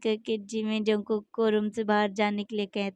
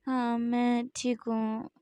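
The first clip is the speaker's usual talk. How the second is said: lazy voice; slower than usual. Acted. Jimin answers the worried two, lazily. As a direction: drag it out sleepily. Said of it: "बहुत ही ज़्यादा lazy voice में बोलता है".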